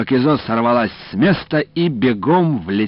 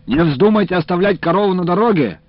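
higher, loud shout from afar; 10 semitones higher, 6 dB louder than usual. A narrator's reading. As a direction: call out across the yard. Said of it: "крикнул со двора уполномоченный".

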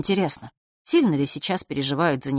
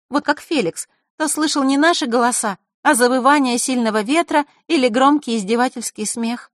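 put-on bright girl's voice, higher; 7 semitones higher, 4 dB louder than usual. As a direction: play the lively friend Zakharra. Zakharra's voice, higher.

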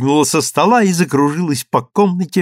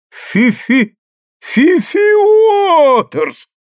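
high, loud joyful shout of her name; everyone shouting; 5 dB louder, much slower than usual. A narrator's reading. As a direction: yell her name across the room in delight. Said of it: "закричали все". (радостный громкий крик)

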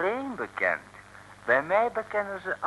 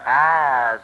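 sharp exclamation; 12 dB louder than usual. Acted. Interrogator reacts sharply.

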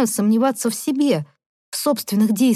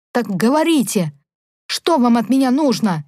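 growled; 3 semitones higher, 3 dB louder than usual. Acted. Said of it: "Откровенно рыкнула в его сторону".

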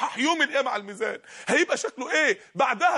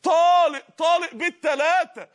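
emphatic declaration; 5 semitones higher, 5 dB louder, slower than usual. Retold or imitated. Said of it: "لما شاف المنظر قال".

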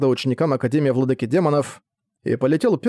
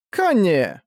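calling out; 5 semitones higher than usual. Acted. Naya calls the little dragon.

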